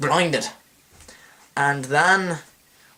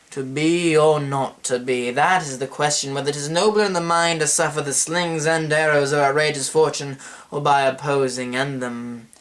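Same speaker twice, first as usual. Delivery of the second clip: theatrical Hamlet recitation. Acted. The speaker quoting Hamlet to open his history video, theatrical recitation. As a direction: recite it like a stage soliloquy, letting it die away.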